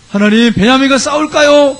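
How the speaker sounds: high, slow, wailing question; imitated tearful plea. Israelites asking God whether to fight, imitated tearful plea. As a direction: plead upward, stretching out the words. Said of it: "그러면서 막 우는 거예요".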